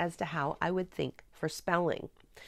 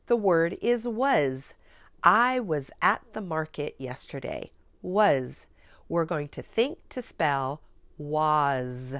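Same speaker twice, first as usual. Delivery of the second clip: slow, clear, louder dictation; classroom teaching voice; 3 dB louder, slower than usual. Shown as a demonstration. Teacher to student, slow deliberate dictation. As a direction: dictate the word slowly for a young pupil. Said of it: "here we go".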